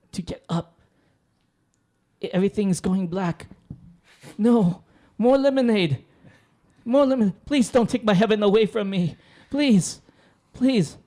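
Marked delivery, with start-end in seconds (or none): 4.4-11.0 mock pleading. Begging not to lose heaven.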